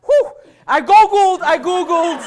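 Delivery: fighting off giggles; laughing. Real, not acted. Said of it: "Maybe if I open my eyes".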